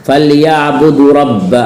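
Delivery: फलयाबुदू रब्ब with a short final "du"; dropped Waw length. Shown as a demonstration. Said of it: "वाव को कुछ लोग नहीं पढ़ते हैं". (फलयाबुदू का वाव छोड़कर, ग़लत)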